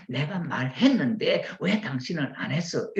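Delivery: accusing spouse, mildly acted; argumentative. Wife demanding why husband didn't do it, argumentative. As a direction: mildly confront your partner. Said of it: "이러면 어떻게 따지는 거잖아요".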